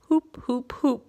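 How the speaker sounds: mock boo-hoo sobs from a storybook fox; sobbing. A narrator's reading. Abandoned fox sobs as Brownie walks away, mock sobbing. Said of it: "sobbed the fox".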